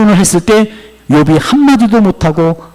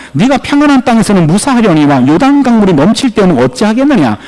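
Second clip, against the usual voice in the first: verse delivered as a lively challenge; rebuking; 2 semitones higher than usual. Acted. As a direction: throw the verse at him as a reproach. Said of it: "예레미야를 책망하고 있어요".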